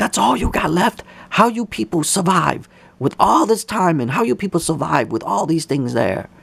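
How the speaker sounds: play-acted high-pitched, accusing, scolding screaming outburst. Retelling a man yelling at them about their supplies: imitating someone screaming. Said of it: "And he was screaming".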